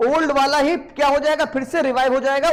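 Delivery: ordinary delivery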